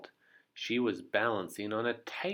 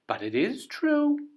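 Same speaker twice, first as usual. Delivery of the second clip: high, loud insisting; insistent; 14 semitones higher, 8 dB louder than usual. Acted. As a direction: insist with smug certainty. Miss Trouble insists to the crowd.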